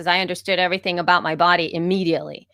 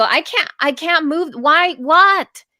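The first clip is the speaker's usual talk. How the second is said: high, baffled exasperation; mock-frustrated, pitched up and louder by the end; acted frustration; 8 semitones higher, 4 dB louder, slower than usual. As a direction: act out a flustered student who can't do it. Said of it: "That frustration I never felt".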